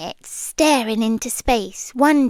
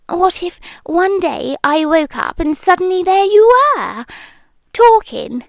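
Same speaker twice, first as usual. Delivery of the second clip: rising agitation; 5 semitones higher, 4 dB louder than usual. Acted. Building agitation.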